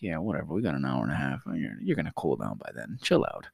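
low, soft, unbothered brush-off; dismissive. Retold or imitated. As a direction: shrug it off like an overconfident kid. Kid brushing off threat, retold.

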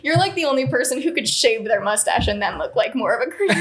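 giggling through the words; laughing while talking. Retold or imitated. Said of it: "And I was like".

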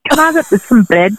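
casual Scottish shop request; Scottish accent. Retold or imitated. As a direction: ask it in a put-on Scottish accent. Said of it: "actually speak like this with my sister".

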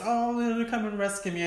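high breathy mock damsel plea; damsel in distress. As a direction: play a helpless princess begging. Mocking damsel waiting for prince.

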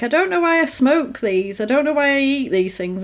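lightly mocking dad voice; imitating the dad. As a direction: whine it like a fed-up father. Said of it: "the dad's always like".

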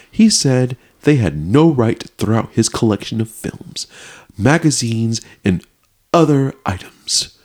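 stagey news read with weighty pauses; swooping, emphatic newsreader voice; dramatic reading. Acted. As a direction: read the article out with exaggerated drama. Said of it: "Why are you saying it like that?".

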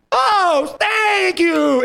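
very high, drawn-out mock squeal; high-pitched gushing woman impression; gushing gratitude. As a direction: imitate an overjoyed, touched thank-you. Imitates grateful diner about to hug.

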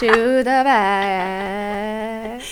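robotic announcement. Retold or imitated. Mimicking the bus announcement.

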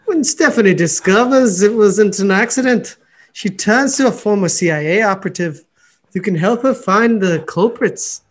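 playful attempt at an Irish accent. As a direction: read it out in a put-on lilting Irish voice. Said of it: "do it in an Irish voice for us".

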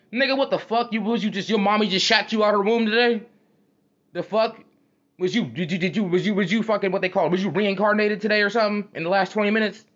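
high-pitched, stammering disbelief; incredulous confrontation. Acted. Confronting a homie acting brand new, incredulous. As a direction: grill him as if he's lost his mind.

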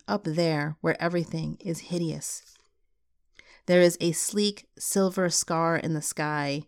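measured, unhurried poetry reading; poem reading. Acted. Podcast host reading a closing poem to listeners, measured and unhurried.

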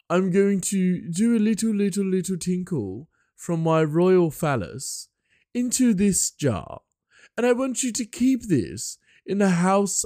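very high, loud, drawn-out posh British royal; hammed-up hoity-toity British monarch; King George, posh British. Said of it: "posh British".

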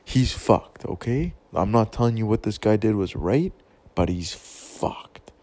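tough love. Retold or imitated. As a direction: lay it out to her loud and straight. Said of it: "I just said, I'm like".

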